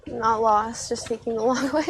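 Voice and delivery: laughing through the line; chuckling at her own joke. Real, not acted. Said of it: "That's a good one".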